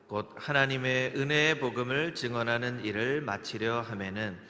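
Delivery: slow, measured verse reading; deliberate congregational Bible recital; scripture recitation. Real, not acted. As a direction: read slowly in phrases for all to follow. Leads verse read together.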